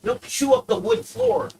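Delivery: high scold. Real, not acted.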